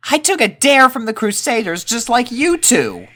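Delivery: put-on high, hesitant boy voice; nervous young colt. A narrator's reading. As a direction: ask it like a scared kid. Rumble voiced.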